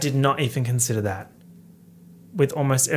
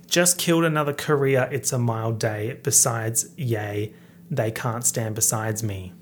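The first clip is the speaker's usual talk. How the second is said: Australian accent; 2 semitones lower than usual. Shown as a demonstration. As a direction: rap the lines in a lightly put-on Australian accent. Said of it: "in, like, full Australian accent".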